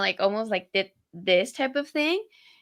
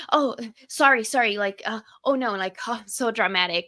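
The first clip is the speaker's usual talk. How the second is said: anxious apologetic voice; 2 semitones higher than usual. Retold or imitated. Imitating an anxious partner apologizing in a flustered voice. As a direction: play the anxious type fussing and apologizing. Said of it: "an anxious one would have been like".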